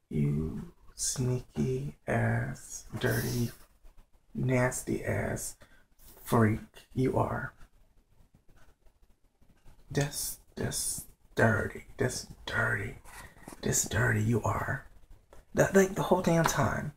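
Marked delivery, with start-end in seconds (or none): 0.1-7.5 slow, softer disgusted muttering; slow, disgusted inner judgment. Retold or imitated. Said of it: "I was looking at him like". 9.9-14.9 slow disgust sinking into a whisper; fading to a whisper. Retold or imitated. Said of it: "I was looking at him like".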